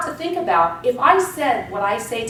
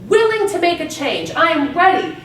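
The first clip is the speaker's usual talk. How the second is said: confident affirmations; 3 dB louder than usual. Shown as a demonstration. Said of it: "Put your positive affirmations up there".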